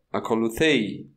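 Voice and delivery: "Acolutei" with the accent rising on the diphthong, then falling at the end; Greek pitch accent. Shown as a demonstration. Teacher showing students the rise and fall on "Acolutei". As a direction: let "Acolutei" climb and drop on its last syllable. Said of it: "o acento está no épsilon e depois cai".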